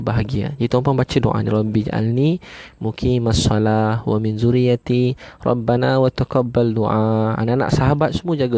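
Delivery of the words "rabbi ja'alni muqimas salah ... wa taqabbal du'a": slow, measured chanting of the Arabic prayer; slow prayer recitation. Acted. Preacher recites the prayer to the congregation, slow and reverent.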